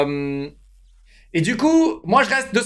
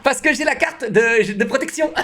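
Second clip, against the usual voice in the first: laughing; 4 semitones higher than usual. Real, not acted. Jokes about race card.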